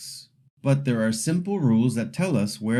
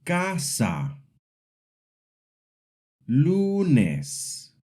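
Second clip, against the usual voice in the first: CAsa, LUnes, first syllable stressed; casa and lunes modelled for repeating, weight up front; practice word stress; 4 semitones higher, much slower than usual. Shown as a demonstration. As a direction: stress the start of Casa and Lunes, then fall. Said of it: "Repeat after me".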